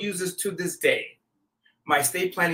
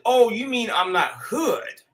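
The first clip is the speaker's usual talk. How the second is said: slow, laughing through the words; mock-puzzled, laughing it off; laughing retort; 3 semitones higher, slower than usual. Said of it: "I said".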